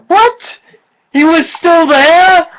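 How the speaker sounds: high, loud disbelieving question; surprised. Real, not acted. Reader shocked the cameraman is still there, high surprise. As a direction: react in shock, pitch jumping up. Surprised reaction while reading.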